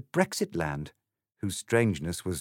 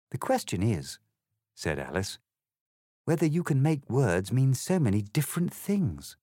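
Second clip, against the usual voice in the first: put-on a slightly higher, prim girl's voice; polite Alice, lightly voiced; 4 semitones higher than usual. Alice politely answers the egg, lightly voiced girl. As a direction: explain it courteously, a proper little lady.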